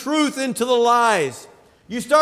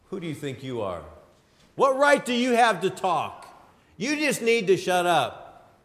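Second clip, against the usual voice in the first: starts much lower and softer, a mocking devil; Satan's sneer; 3 semitones lower, 4 dB quieter than usual. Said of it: "Satan was always there".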